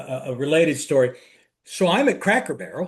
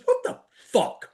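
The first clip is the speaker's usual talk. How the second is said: much higher, mock-indignant voice; brother's outrage. Big blue-collar brother fuming over the logo, in a high mock voice. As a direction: ham up the big guy's shock. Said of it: "He goes".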